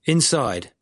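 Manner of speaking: ordinary delivery, nothing marked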